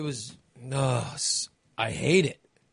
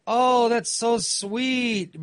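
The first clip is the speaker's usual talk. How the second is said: mock sweet thanks; 9 semitones higher, 3 dB louder, much slower than usual. Fake thanks to his wife.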